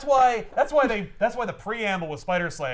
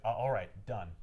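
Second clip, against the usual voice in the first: meek; 7 semitones lower, 6 dB quieter than usual. Retold or imitated. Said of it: "very meekly".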